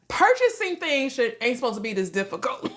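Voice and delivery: high-pitched protest, dropping as it goes; exasperated complaint. Retold or imitated. Acts out exasperated dream reaction.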